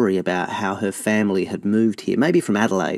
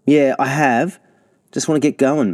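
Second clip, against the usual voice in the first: impatient; 6 semitones higher, 5 dB louder than usual. A narrator's reading. Castor impatient to leave.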